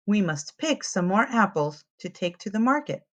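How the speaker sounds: lively picture-book read-aloud; reading to children. A narrator's reading. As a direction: tell it to little ones, clearly and brightly.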